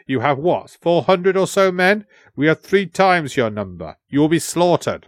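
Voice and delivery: lightly acted threat, pitch lifted; mildly scornful warning to the outnumbered; scornful translator. Translator threatening the defenders, mildly scornful.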